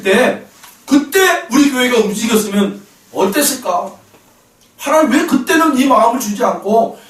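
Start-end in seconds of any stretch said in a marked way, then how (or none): 4.8-7.0 retold protest, pitched higher; re-enacted plea of objection; protesting to God. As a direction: argue your case before God, voice raised in pitch. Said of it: "하나님 앞에 항변하고 있더라는 거예요".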